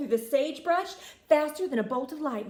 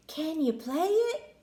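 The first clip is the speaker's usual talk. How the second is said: snake voice; 5 semitones higher than usual. Acted. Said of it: "asked Danny".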